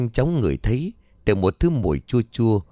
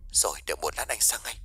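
much softer, distant phone-line voice; 11 dB quieter, faster than usual. A narrator's reading. Lover answering her late-night call, heard over the phone. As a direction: sound like he's coming through a phone receiver. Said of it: "giọng của ông ở đầu dây bên kia".

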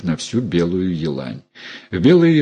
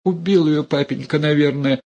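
babbling hunchback; 7 semitones higher than usual. A narrator's reading. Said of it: "лопочет Горбунья".

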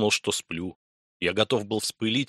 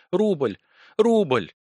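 high, loud frantic cries; breathless frantic repeating; 9 semitones higher, 3 dB louder than usual. A narrator's reading. Frantic woman crying her one demand at the buyer, high and loud. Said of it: "хрипло задыхаясь от волнения ... как помешанная".

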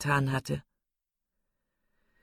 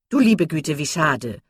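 silly chattering Miss Steele; 2 semitones higher, 7 dB louder than usual. A narrator's reading. Miss Steele bragging about the doctor, giddy chatter. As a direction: prattle on, pleased with herself.

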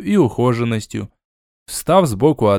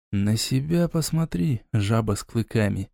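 snapping back; 3 semitones lower, 6 dB quieter than usual. Acted. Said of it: "огрызнулся".

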